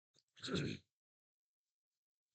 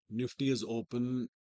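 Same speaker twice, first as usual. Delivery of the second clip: hoarse, strained from a sore throat. Real, not acted. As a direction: talk through a sore throat. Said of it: "I have a sore throat".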